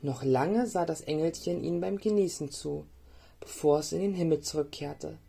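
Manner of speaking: put-on lively storytelling for small children; story narration. A narrator's reading. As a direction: read a gentle tale with playful lifts on key words. (Märchen für Kinder vorlesen)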